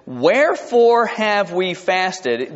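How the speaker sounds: slow, drawn-out mild complaint; lightly voiced aggrieved teenager, stretching the words; complaining teenager. Preacher quotes the people complaining about fasting, mild teenage grievance. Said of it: "That sounds like a teenager".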